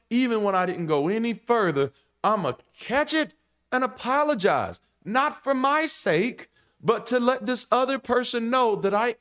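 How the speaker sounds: high, loud fervent preaching; impassioned preaching. Real, not acted. To viewers on apologizing, fervent preaching. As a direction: preach it with rising fervor.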